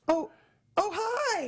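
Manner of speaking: high-pitched, suddenly friendly greeting; switching to normal. Retold or imitated. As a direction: imitate her recovering on the phone. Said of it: "then she got all normal".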